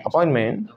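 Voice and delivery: अपॉइंटमेंट ending in "men"; American T-dropping. Shown as a demonstration. Teacher repeating for students, American-style अपॉइंटमेंट. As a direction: drop the final T of अपॉइंटमेंट. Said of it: "American कहते हैं".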